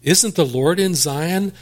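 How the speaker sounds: mock shocked appeal; incredulous question. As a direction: plead it like they can't believe it. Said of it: "like it was some kind of a surprise to them".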